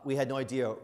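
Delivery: ordinary delivery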